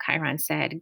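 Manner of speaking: ordinary delivery, nothing marked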